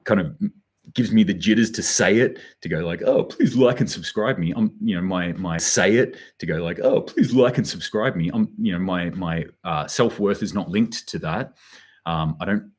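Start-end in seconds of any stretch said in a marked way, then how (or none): 3.0-4.5 corny plea. Pretend. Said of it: "it sounds corny". 6.8-8.3 corny plea. Pretend. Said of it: "it sounds corny".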